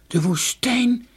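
put-on high, drawn-out child's cry; high-pitched, stretched exclamation; calling out. A narrator's reading. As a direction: call it out slowly in a high voice. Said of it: "riep Donja".

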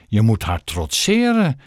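firm advice, weight on "trotseren"; emphatic. A narrator's reading. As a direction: press the word "trotseren" home. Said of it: "zei meneer Stink nadrukkelijk". (nadrukkelijk, met klem op "trotseren")

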